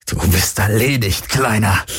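pressed out in pain. Acted. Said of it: "presste Heska unter Schmerzen hervor".

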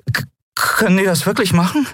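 high stammering scared voice; frightened stammer. A narrator's reading. Miko asking Keru, frightened. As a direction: stumble over the first word in fright. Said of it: "riss erschrocken die Augen auf".

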